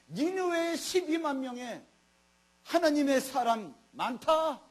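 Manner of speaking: slowed down, each word weighed; slow emphasis. Real, not acted. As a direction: lay it down slowly like a verdict. Preacher stressing God's word. (천천히 또박또박 힘주어)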